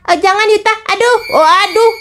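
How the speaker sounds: high panicked cries of alarm; alarmed cry. Acted. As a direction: yelp as she tips over. Pushed into the gutter. (teriakan panik)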